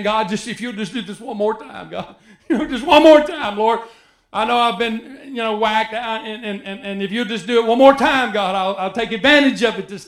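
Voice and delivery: half-laughing imitation of a bargaining sinner; mock begging God. Preacher imitating people begging God for another chance, mock pleading. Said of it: "crying out to God, saying".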